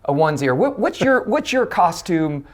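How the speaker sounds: usual speaking voice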